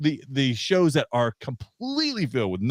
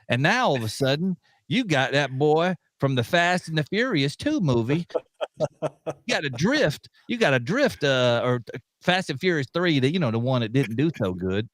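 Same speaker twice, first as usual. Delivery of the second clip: mock Southern accent. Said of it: "which talks a little bit like this".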